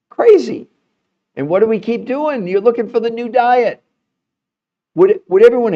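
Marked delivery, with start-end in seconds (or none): 0.1-0.7 Crazy, much higher and louder, falling hard; incredulous exclamation. Shown as a demonstration. Host repeating Crazy to viewers, high incredulous exclaim. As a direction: throw the word Crazy out in disbelief. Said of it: "this is crazy".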